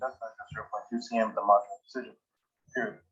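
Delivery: fast dictation, reading out the punctuation; dictating. Shown as a demonstration. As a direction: rattle it off for the recorder. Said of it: "now I'm going to just start dictating".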